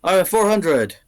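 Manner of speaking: milk each bid like an auctioneer; auctioneer calling bids. Acted.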